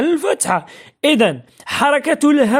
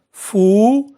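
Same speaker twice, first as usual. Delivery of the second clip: syllable by syllable. Shown as a demonstration. Teacher sounding out an example for pupils, فؤاد syllable by syllable. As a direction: draw out فؤاد with pauses between syllables.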